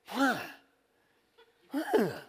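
imitated huff of disgust; short, scoffing noises of a disgusted onlooker; mock disgust. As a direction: act out a disapproving older lady. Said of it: "this look of disgust".

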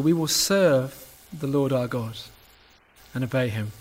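measured, solemn Bible reading to the congregation; scripture reading. Acted. Pastor reading Joshua's speech to the church, solemn and measured. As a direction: read the passage out steadily, each line weighed.

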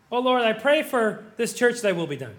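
formulaic mock prayer, falling away at the end; rote prayer. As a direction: recite a stock prayer. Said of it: "you don't talk that way".

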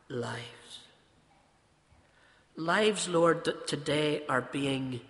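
measured prayer with long pauses; earnest, deliberate address to God; public prayer. Real, not acted. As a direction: pray aloud for the congregation, phrase by phrase. Leads the congregation in prayer.

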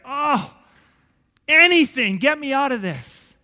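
high, loud begging cry; desperate plea. Retold or imitated. Man in pain begging God for release, a loud high plea. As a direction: beg to be let out of the pain.

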